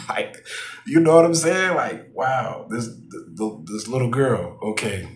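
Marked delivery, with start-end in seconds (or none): 1.8-5.1 disbelief. Real, not acted. Stunned aside.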